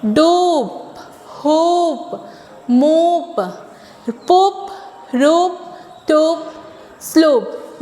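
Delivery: each word with the O drawn out; teacher drilling long O words; long O stretched slowly. Shown as a demonstration. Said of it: "मतलब थोड़ा सा stretch करेंगे".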